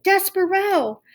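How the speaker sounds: long, high call of his name; shouted. A narrator's reading. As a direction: call him joyfully across the room. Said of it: "And then she shouted it".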